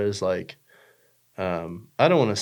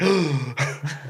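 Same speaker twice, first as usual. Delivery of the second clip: fake gasp; 5 semitones higher than usual. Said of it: "I'm just kidding".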